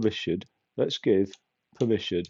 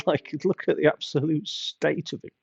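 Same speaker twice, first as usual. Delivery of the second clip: higher, incredulous mockery; amused disbelief; 6 semitones higher than usual. Real, not acted. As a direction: marvel at how ridiculous it looks. Mocking the weird teddy bear.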